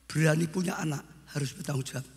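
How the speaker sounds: loud, emphatic sermon exhortation; forceful preaching. Real, not acted. Preacher charges fathers to raise children rightly, loud exhortation. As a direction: drive each phrase home from the pulpit.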